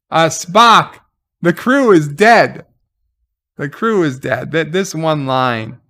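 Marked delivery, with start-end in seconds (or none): 0.1-2.6 louder, blunt, deadpan correction; exasperated reply. Retold or imitated. Answering Spock's speech with a louder, exasperated correction. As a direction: tell him the obvious, exasperated. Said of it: "retelling reply to Spock".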